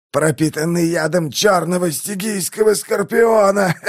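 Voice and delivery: high shouted words through laughter; laughing gloat. A narrator's reading. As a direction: cackle out the curse. Dying man gloats, laughing.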